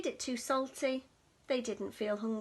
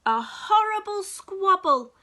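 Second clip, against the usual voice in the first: dramatic; 6 semitones higher, 10 dB louder than usual. A narrator's reading. Squabble narrated dramatically.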